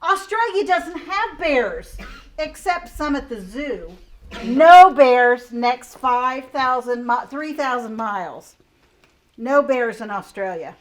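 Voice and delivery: loud, insistent koala protesting; indignant koala. Acted. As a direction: hammer home that there are no bears. Reading the koala's rhyme.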